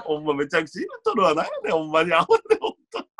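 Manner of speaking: Kansai dialect. Real, not acted. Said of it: "関西弁やめろよ。".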